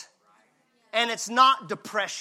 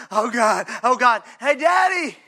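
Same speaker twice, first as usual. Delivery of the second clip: crying out daddy. Acted. Preacher voicing a child crying out to God as daddy. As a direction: wail it like a frightened child. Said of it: "instead of".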